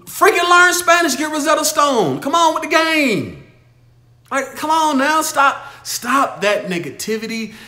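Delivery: telling the viewers to quit making excuses, loudly; exasperated shouting. Real, not acted. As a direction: yell it like a frustrated coach. Exasperated rant at excuse-makers.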